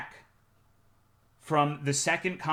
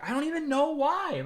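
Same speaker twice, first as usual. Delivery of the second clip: high, mocking whine of his excuse; mocking whiny voice; 12 semitones higher than usual. Streamer mocking the shrew's excuse, high whiny voice.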